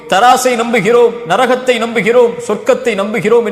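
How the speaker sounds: insistent list, climbing in pitch; rising, rhythmic profession of faith; building sermon litany. Real, not acted. Preacher's litany of belief, building.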